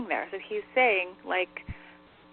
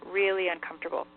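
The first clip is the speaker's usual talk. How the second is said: "really uncomfortable" said with measured emphasis; relayed warning, "really uncomfortable" lightly underlined. Retold or imitated. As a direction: lean a little on both words, "really uncomfortable". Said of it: "he's, like, emphasizing that".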